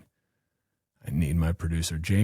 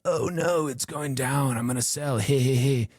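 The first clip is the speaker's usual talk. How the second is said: higher, mock panicked seller; hammed-up panic over a falling price; panicky weak hands; 6 semitones higher than usual. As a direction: squeal like a nervous trader dumping coins. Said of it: "the weak hands are like".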